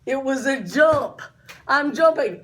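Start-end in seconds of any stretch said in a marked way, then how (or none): 1.7-2.4 loud burst of alarm; excited shout. Retold or imitated. Going off the jump unawares, a loud excited shout. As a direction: call it out mid-air.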